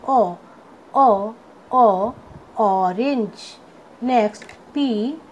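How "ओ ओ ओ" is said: ओ as the vowel that starts "orange"; phonic letter sound. Shown as a demonstration. Teacher showing students the sound of O, phonic letter sound. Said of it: "ओ का sound होता है".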